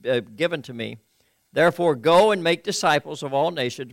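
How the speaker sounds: steady, measured Bible reading; reading from the NIV; scripture reading. Acted. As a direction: read the passage to the congregation.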